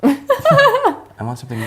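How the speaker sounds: giggling through the words, drawn out; laughing. Real, not acted. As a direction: laugh while asking, slowly.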